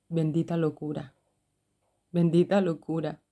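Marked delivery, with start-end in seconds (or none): 0.1-1.1 laughing fondly. Real, not acted. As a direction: chuckle it out, amused at herself. Laughing at her own "madness.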